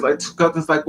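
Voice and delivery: ordinary talk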